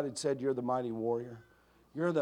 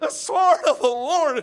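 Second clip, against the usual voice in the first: shrill, very loud, full-throated, high battle cry; 13 semitones higher, 12 dB louder than usual. Retelling soldiers as the confusion grows: imitating louder yelling. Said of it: "they're yelling louder".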